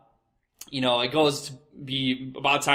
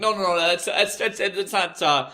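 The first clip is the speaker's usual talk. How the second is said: higher mock flustered stammer; 3 semitones higher than usual. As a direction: fumble for an excuse, stammering. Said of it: "When I'm like".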